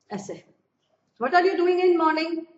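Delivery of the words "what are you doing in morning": slow, louder example question; slow example read. Shown as a demonstration. Teacher slowly giving a correct example to students. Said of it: "ये ठीक है".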